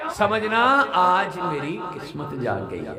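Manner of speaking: high loud preaching cry; fervent proclamation. Real, not acted. Preacher proclaiming a beautiful line to listeners, high fervent cry. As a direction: ring it out high for the crowd. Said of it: "یہ بڑا خوبصورت جملہ کہنے لگا ہوں".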